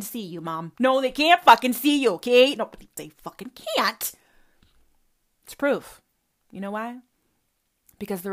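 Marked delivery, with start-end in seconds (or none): none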